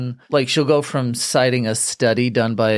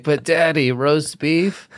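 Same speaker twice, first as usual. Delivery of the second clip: put-on higher pleading child voice; whiny kid begging; 4 semitones higher than usual. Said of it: "even when they're like".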